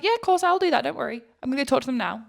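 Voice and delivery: high, breezy mock Australian accent. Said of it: "what that accent was".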